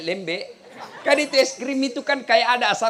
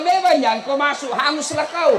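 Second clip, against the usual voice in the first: raised, teasing yell of warning; loud mock warning; 6 semitones higher, 6 dB louder than usual. Preacher teasing the villager with a loud warning. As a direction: jeer at him loudly. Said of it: "Saya bilang".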